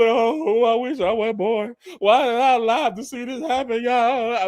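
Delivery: mild imitated lament; freaking out. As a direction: play him panicking, lightly. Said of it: "Baruch lost his mind".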